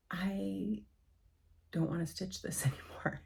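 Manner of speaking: soft unvoiced whisper; whispered thought.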